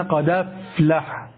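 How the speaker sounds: slow, drawn-out قد أفلح joined as qadaflaḥ; slow demo. Shown as a demonstration. Teacher slowly demonstrating the hamza shift to students. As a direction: say "قد أفلح" slowly, the fatha carried onto the dal. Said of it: "فقلنا".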